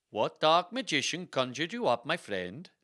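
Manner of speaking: put-on Swedish-accented hostile challenge; hissed Swedish accent. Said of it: "she hissed".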